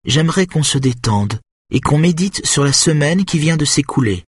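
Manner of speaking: a lightly voiced, solemn woman leading meditation; slow solemn Lydia. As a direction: draw it out like a sermon. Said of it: "dit-elle lentement".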